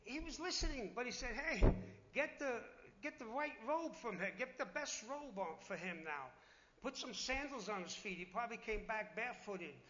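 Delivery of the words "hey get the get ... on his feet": a father overjoyed, ordering a robe; joyful father calling out. Retold or imitated. Father calls to his servants over his returned son, joyful.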